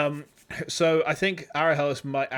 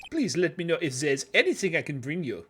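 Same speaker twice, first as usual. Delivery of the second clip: put-on French accent. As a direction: offer help with a light French lilt. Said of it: "wondering about the accent".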